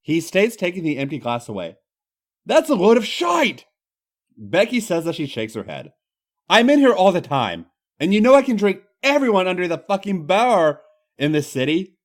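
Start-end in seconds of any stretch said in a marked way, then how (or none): 2.4-12.0 high, loud Irish protest; Irish woman, indignant. Acted. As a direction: scoff in a broad Irish voice. Becky's voice in the story.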